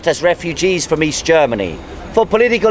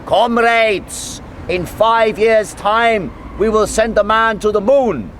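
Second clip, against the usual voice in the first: lightly voiced cosmonaut addressing a cheering crowd; mock Soviet cosmonaut; 3 semitones higher, slower than usual. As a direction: proclaim it like a cosmonaut on a platform. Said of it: "in broken German and he said".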